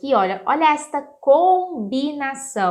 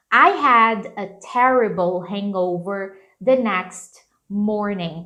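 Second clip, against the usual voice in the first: slow model sentence; slower than usual. Shown as a demonstration. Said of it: "Então".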